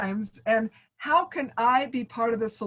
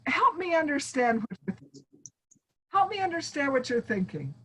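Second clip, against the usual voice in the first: gentle invitation; 2 semitones higher, faster than usual. Pretend. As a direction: invite them to explain. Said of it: "you say".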